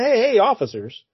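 lightly voiced wheedling doctor; smarmy doctor. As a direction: coax the cops like a sly scientist. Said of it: "he says".

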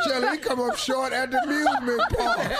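laughing. Real, not acted. Teasing, laughing.

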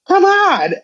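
high pitched mock exasperation; exasperated cry. New mom exasperated at visitors, high cry. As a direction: wail it at the open door.

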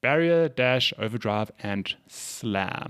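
podcast host reading a game ad; sponsor ad read. Real, not acted. Host to podcast listeners, plugging a game, scripted ad read. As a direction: sell it as a scripted sponsor spot.

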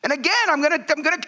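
high-pitched preaching push; fervent preaching. Acted. Pastor challenging Americans in church, fervent preaching. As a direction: press the point hard.

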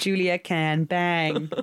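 slow, drawn-out tease; slow teasing. Real, not acted. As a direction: stretch every word teasingly. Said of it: "repeats slowly for effect".

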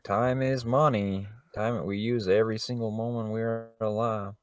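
lightly put-on Southern accent. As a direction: read it like a Southern preacher. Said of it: "I did that in a southern accent".

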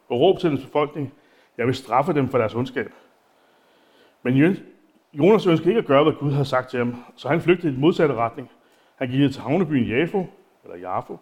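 slow, measured scripture reading; unhurried reading of the text; Bible reading. Acted. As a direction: read the passage out to the congregation. Reads Jonah aloud in sermon.

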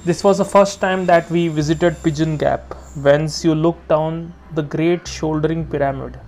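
measured, slightly lifted reading voice; poem reading. A narrator's reading. Reader sharing a favourite poem with listeners, measured reading. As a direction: read the poem steadily, savouring the lines. Reads Jeffers poem aloud.

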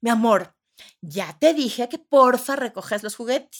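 mock strained sweet.

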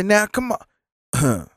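slow, drawn-out mock complaint; slow, lightly voiced imitation of an annoyed customer; lightly voiced man. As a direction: stretch it out slowly, half-hearted. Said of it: "Using her voice".

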